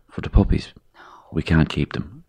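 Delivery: hushed grandad. Retold or imitated. Grandfather quietly explaining drowning.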